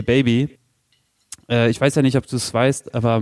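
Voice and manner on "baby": distorted voice. Shown as a demonstration. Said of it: "ich muss natürlich meine Stimme verstellen".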